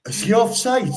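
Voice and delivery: sudden high-pitched shout at the game; shouted query. Real, not acted. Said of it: "are you shouting offside here".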